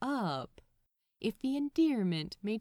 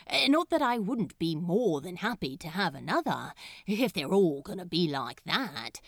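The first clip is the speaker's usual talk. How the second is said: fast, louder nervous backpedal; flustered rambling; 4 dB louder, faster than usual. A narrator's reading. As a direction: rush out the excuse.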